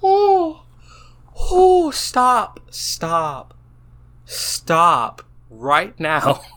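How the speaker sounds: high squeals of giggling protest; laughing disbelief. Real, not acted. Player reacting to the AI story's love confession, laughing. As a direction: beg the story to stop while cracking up.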